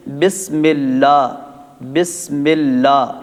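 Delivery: slow بسم اللہ with a drawn gap; deliberately mistaken slow بسم اللہ; wrong Bismillah demo. Shown as a demonstration. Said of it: "بسم اللہ میں دو غلطیاں ہو گئیں".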